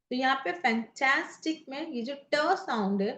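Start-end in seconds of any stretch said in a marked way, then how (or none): 0.5-1.6 फैंटास्टिक with टा punched; दूसरे अक्षर पर बल. Shown as a demonstration. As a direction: lean on the middle syllable टा of फैंटास्टिक. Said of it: "यहाँ ये स्ट्रेस मार्क दिया गया". (फैंटास्टिक के टा पर ज़ोर देकर)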